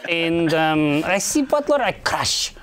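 put-on New York accent. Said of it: "with a thick New York accent".

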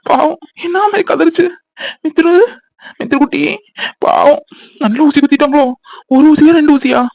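acted weepy pity for the child; tearful. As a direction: fret tearfully over the little one. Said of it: "நீங்க ஏன் அழுறீங்க?".

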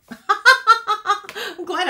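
high, loud laughing voice; real laughter spilling into the words; laughing at herself. Real, not acted. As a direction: talk through a big laugh. Laughing at her own cutting mistake.

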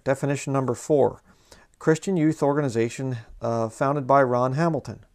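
mock dictionary reading, played straight; a little sarcastic. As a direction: read the made-up definition as if genuine, slyly sarcastic. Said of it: "just being a little sarcastic".

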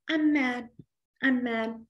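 lightly mock being mad; unconvincing, sarcastic anger. Shown as a demonstration. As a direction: say it as if not really mad. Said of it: "Unless you're trying to be sarcastic".

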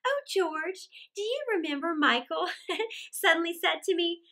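high lady's voice, wistful; wistful mother. A narrator's reading. Mother recalling the romp with her husband, high and wistful. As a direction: lift it high in fond recollection.

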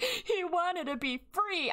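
high, slow, mocking imitation of mom. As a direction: parrot mom in a high, dreamy sing-song. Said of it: "my mom's like".

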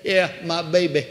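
imitated dying mother's inward voice; voice from deep inside. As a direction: answer from down inside, lips unmoving. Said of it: "out of some way or another down inside".

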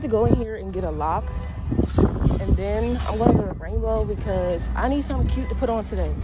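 muffled by cloth mask; speaking behind covered mouth; through a face mask. Real, not acted. Seen 0: Mask covers mouth and nose throughout; pulled down under chin before.

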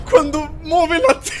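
high, loud words through laughter; laughing. Real, not acted. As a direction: talk while cracking up. Cracking up at the scene.

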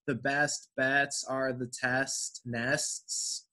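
measured tongue twister, every T released in "test nests"; hard T. Shown as a demonstration. Teacher models the sentence for the next student, hard T. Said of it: "You made that hard T".

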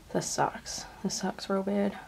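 quiet, softly disappointed; subdued, real letdown; dejected. Real, not acted. Thinks the test is negative.

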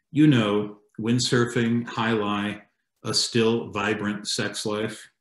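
deadpan comic poem, measured phrases with pauses; understated recital, pausing at the line breaks; poetry reading. Acted. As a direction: read the poem aloud to an audience, lightly mock-earnest. Reads own poem aloud.

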